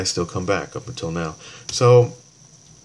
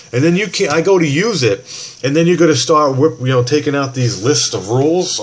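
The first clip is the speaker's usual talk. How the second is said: much higher and louder, heated complaint; angry protest; 5 semitones higher, 4 dB louder than usual. Retold or imitated. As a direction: push back hard at the agent. Fighting the agent on phone.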